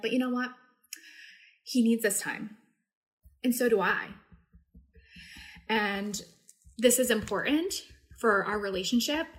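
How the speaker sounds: demonstrated self-soothing, with long pauses between phrases; calming down. Shown as a demonstration. Mom calming herself after venting about her son, calmer self-talk. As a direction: talk yourself down gently, phrase by phrase. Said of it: "I start to calm down a little bit".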